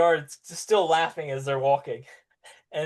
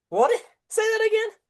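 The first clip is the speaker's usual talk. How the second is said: guard's request; 8 dB louder than usual. Acted. Guard laughing, asks again.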